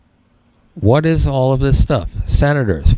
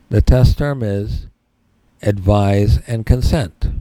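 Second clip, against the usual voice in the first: dictating; 3 semitones lower than usual. Shown as a demonstration. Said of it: "Write this down".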